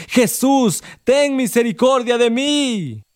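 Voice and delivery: high, slow pleading cry. Acted. Blind beggar crying out to Jesus, high and pleading. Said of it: "él más le gritaba".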